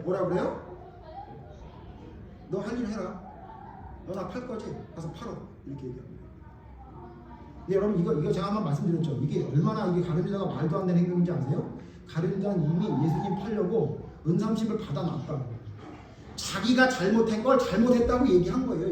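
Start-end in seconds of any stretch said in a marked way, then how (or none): 2.5-5.3 soft retold command, dropping away; acted quiet dismissal. Voicing Jesus coolly dismissing Judas. 16.4-18.9 raised, higher pulpit voice; emphatic preaching. Real, not acted. Preaches at full force.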